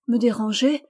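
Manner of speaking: une exclamation surprise, plus forte; s'écrier, étonnée; surprised exclamation. Acted. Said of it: "s'écria Phébé". (s'écrier avec surprise)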